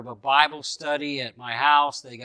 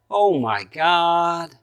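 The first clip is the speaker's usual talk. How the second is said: slow, stretched-out exclamation; long, drawn-out vowels; drawn-out reaction; 2 semitones higher, much slower than usual. Retold or imitated. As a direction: imitate her reaction, dragging each word out. Woman reacts to hearing he's pastor.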